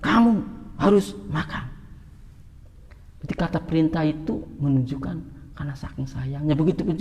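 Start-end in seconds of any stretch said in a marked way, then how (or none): 0.0-1.7 loving parent insisting. Retold or imitated. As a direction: press the hungry child to eat, out of love. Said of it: "Intonasinya itu juga beda".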